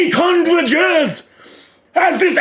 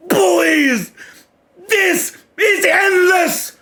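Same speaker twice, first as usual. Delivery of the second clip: hyped shouting; 3 semitones higher, slower than usual. Real, not acted. Fan yelling at the manga page in real delight. Hyped reaction to the jump rope panel.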